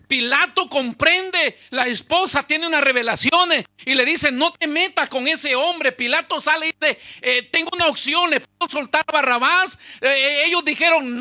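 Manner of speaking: loud, high pulpit storytelling; impassioned preaching. Acted. Pastor retelling Pilate's choice to the congregation, loud and fervent. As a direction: drive the Passion story home at full voice. Preaching the Passion at full force.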